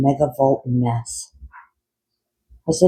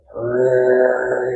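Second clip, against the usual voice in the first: a hint of a drawn-out frog croak; long slow ribbit. A narrator's reading. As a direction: stretch the ribbit out lazily. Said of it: "came a long, slow".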